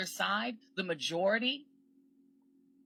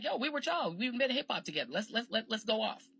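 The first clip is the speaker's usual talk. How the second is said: higher, buzzing with eagerness; rally your crew, lightly hyped; hyped reunion; 4 semitones higher than usual. Retold or imitated. Caribbean Americans rallying African Americans, upbeat and eager. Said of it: "Caribbean Americans are like".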